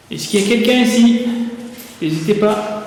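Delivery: calling out loudly.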